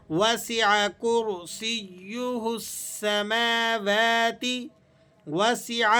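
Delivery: وسع with a proper throat ayn; slow clear وسع. Shown as a demonstration. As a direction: articulate the ain in وسع. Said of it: "عین کو آپ نے صحیح درست تلفظ کے ساتھ ادا کرنا ہے".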